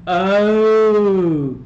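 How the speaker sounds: it just clicked, blurt it out; real surprise at the mic; sudden realization. Real, not acted.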